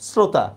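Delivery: শ্রোতা with a plain "s"; actual pronunciation. Shown as a demonstration. Teacher repeats the spoken form, শ্রোতা as "srota". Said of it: "আমরা কি উচ্চারণ করি?".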